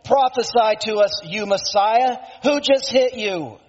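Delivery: a preacher voicing a mocking challenge; jeering. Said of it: "jeering at him".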